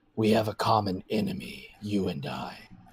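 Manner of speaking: deep rumbling voice. Telling the players a voice speaks into their minds, rumbling deep voice. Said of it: "he hears the rumbling voice say".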